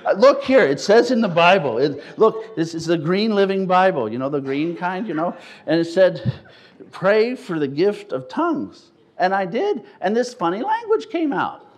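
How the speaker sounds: high, loud, laughing protest; excited defence. Retold or imitated. Young man defending himself to the leader, high and excited. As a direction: plead your innocence, bubbling over. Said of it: "I said".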